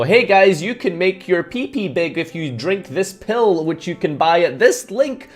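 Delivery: a hint of cheesy salesman; lightly voiced sleazy promoter; spam advertiser. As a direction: pitch it like a spam ad. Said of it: "spammers and advertisers being like".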